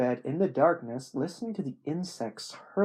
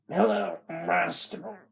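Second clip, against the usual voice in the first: slow, higher-pitched slurred drawl; slurred speech; 6 semitones higher, 4 dB louder, slower than usual. Acted. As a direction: slur it like a dying Southern man. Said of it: "The speech was slurred".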